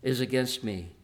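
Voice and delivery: despairing cry. Acted. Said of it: "as he cries".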